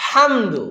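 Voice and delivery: হামদু with a light ordinary ha; wrong hamdu. Shown as a demonstration. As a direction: say হামদু with a plain small ha. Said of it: "সে হা না বলে বলল হামদু".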